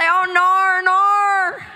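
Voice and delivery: high, drawn-out mock Aussie "no"; Australian accent. Shown as a demonstration. Guest shows off accent skills to Australian host, hammed-up Australian accent. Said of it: "I can also say".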